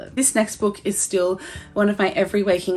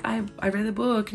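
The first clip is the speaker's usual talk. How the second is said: softly re-enacting being emotional; retold emotional confession; 3 semitones higher, 5 dB quieter than usual. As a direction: say it quietly, imitating a mild choked-up moment. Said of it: "I was just so emotional".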